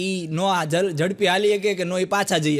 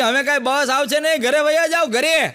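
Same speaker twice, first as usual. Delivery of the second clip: calling out; 5 semitones higher, 3 dB louder than usual. Retold or imitated. Man calling from the flat.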